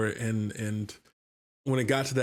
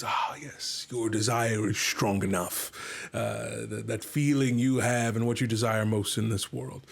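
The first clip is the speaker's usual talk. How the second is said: dragon speaking. Retold or imitated. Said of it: "I had the dragon ... he says".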